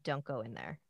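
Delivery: hushed warning, only lightly acted; retold whisper. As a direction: say it low, like reported whispers. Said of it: "like, whispers".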